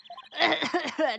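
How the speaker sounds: high, acted coughing fit; short burst of breathless coughing; winded cough. Character winded after exercise.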